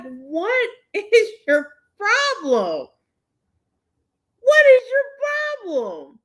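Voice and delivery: slow, high, laughing disbelief; laughing retort. Retold or imitated. Talking back to a hater, laughing. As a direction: laugh through the comeback.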